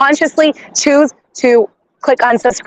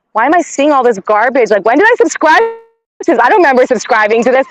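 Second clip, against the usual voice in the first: exasperated self-quote; 2 semitones higher than usual. Retold or imitated. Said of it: "and I'm like".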